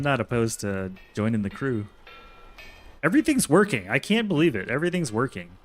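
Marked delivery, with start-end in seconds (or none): 3.0-4.7 excited. Real, not acted. Streamer cheers as his build finally runs, excited. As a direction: blurt it out, thrilled it works.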